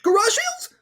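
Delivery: very high squealed question; ridiculous high-pitched caricature. Acted. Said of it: "It's like".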